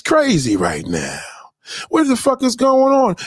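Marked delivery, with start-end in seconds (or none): 1.9-3.2 outraged. Real, not acted. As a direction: blow up at the chat in disbelief. Outraged rant at audience.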